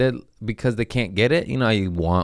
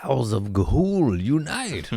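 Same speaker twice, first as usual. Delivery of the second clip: mock rallying cry; 5 semitones higher than usual.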